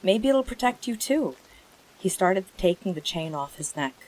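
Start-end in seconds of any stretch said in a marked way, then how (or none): 0.0-1.3 higher, pleading hope; hopeful cry. A narrator's reading. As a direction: urge the horse to take the gem. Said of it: "Atreyu cried".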